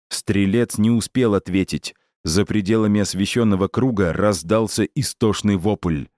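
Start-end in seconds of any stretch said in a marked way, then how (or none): none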